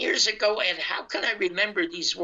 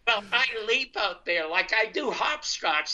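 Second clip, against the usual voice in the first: laughing; 4 semitones higher than usual. Real, not acted. Laughs at his own eagerness.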